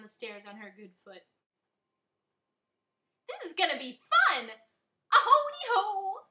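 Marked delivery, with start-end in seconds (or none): 3.3-6.3 put-on high, loud, slow baby voice. A narrator's reading. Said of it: "used a baby voice".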